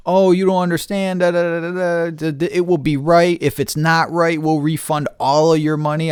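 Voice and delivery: high, whiny mock of a seller's excuses; mocking imitation. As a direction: parrot their patter in a high singsong.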